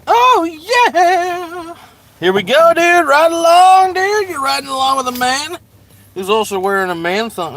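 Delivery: high, loud surfer-dude hype; hyped dude voice. Pretend. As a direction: pump it up like a party bro. Hyped dude voice while driving.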